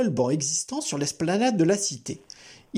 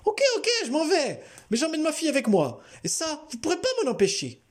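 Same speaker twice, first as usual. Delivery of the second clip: high, laughing, fast retort; sneering intruder; 14 semitones higher than usual. A narrator's reading. Intruder mockingly agrees to go but claims his daughter. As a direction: give in with a sneer.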